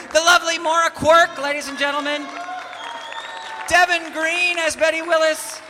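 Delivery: a showman's puppet voice calling out names; high character voice. Acted. Character thanks the cast and sponsor to the audience, high.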